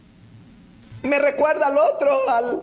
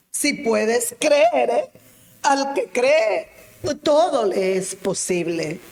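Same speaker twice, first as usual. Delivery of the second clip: slow Jesus; 2 semitones lower, slower than usual. Acted. Jesus' reply, slowly.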